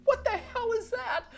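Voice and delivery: high, loud laughing retelling; amused, laughing aloud. Real, not acted. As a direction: laugh through the memory. Laughing while telling story.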